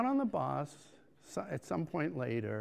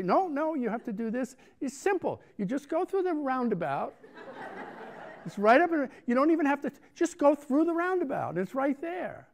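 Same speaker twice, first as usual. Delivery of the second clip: insistent directions; 10 semitones higher, 5 dB louder than usual. Retold or imitated. Woman insists on directions, laughing.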